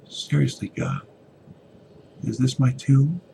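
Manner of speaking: desperate inner plea. Acted. Evan in the dark closet, anguished plea to God. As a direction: plead with God, half frantic.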